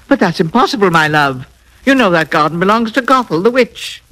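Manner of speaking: a touch of nervous protest; quaking with fear. Acted. Husband quaking as he warns his wife about the witch, mildly fearful. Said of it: "quaking in his boots".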